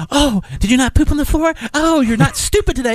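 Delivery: put-on high sweet baby talk; sweet-talking insults to the dog; kind voice. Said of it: "I say it in a kind voice".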